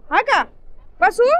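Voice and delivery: high, loud warnings to the dog; yelling at the dog. Real, not acted. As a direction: stop him running over the roofs. Shouting at dog on rooftops.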